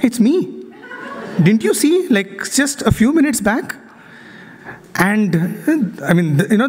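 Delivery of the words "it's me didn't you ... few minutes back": raised pitch, plaintive donkey voice; a hurt donkey pleading to be recognized. Retold or imitated. Donkey pleading with the gatekeepers, raised and plaintive. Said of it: "And the donkey is like".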